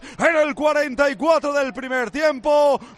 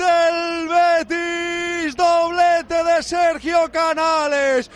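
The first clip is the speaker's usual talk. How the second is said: slow, shouted praise; excited goal call; 5 semitones higher, slower than usual. Real, not acted. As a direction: savor the scorer's name. (elogio gritado y emocionado)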